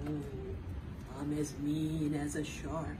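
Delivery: a hint of a mean shark; mildly menacing growl-free shark.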